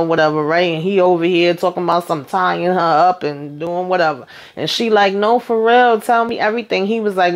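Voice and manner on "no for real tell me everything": higher, egging him on; mock eager. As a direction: play along, eager to hear. Coaxing him on the phone.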